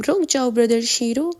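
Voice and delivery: a warm call to a friend across the crowd; loud and loving. Acted. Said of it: "ذرا بلند اور پیار بھری tone میں". (پیار بھری بلند آواز)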